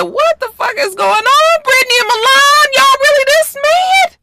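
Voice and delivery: high, loud shocked yell; shouting at the two fighting teachers; shouted. Retold or imitated. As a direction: yell at them to stop fighting. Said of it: "I said".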